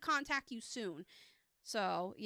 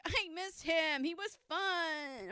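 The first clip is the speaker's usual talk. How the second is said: slow, higher wistful squad voices; missing friends; 6 semitones higher, much slower than usual. Retold or imitated. Squad mates telling Carlos they miss him, slow and wistful. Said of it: "they're all like".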